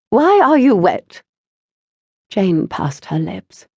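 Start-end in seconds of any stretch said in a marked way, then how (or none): 0.1-1.2 suspicious mother. A narrator's reading. Mother interrogating daughter.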